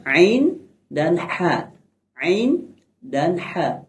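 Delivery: "ain" and "ha" squeezed from the middle of the throat; mid-throat Arabic letters. Shown as a demonstration. Teacher showing middle-throat letters, slow pharyngeal "ain" and "ha". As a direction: say "ain dan ha" slowly, constricting mid-throat. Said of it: "bagian tengah".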